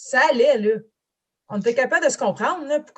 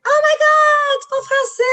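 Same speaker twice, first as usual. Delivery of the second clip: high, loud gushing "oh my God", much higher than her own voice; overjoyed shop clerk suddenly hearing French; excited clerk; 7 dB louder than usual. Retold or imitated. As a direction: imitate a thrilled saleswoman squealing with delight. Imitating the excited Walmart clerk.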